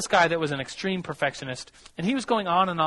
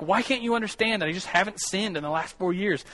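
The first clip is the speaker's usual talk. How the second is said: exasperated, higher-pitched mock protest; retold anger; 4 semitones higher than usual. Perfectionist insisting to his challenger that he is sinless, imitated exasperation. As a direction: imitate someone getting mad, pitch raised. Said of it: "started getting really mad at me".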